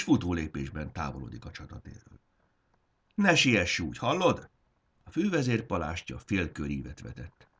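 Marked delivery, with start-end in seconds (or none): 3.1-4.5 calling after someone. Acted. Calling after the fleeing warlord.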